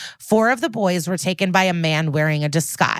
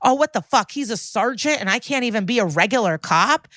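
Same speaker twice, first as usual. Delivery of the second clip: higher-pitched mock outrage; retold miffed complaint, pitched up; imitated indignation; 4 semitones higher than usual. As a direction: act out an indignant gripe. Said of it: "he's mad".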